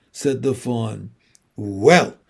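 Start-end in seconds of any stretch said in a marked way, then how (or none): 1.6-2.2 lower, hesitant, drawn-out word; rather slowly. A narrator's reading. Lucy wanting to be truthful yet kind, speaking slowly. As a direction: draw it out reluctantly. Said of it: "said Lucy rather slowly".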